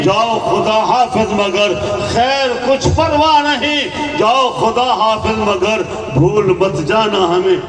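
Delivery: rhythmic poetic refrain, words drawn out; farewell verse recitation. Acted. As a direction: recite the goodbye as a repeated couplet. (ترنم آمیز الوداعی شعر خوانی)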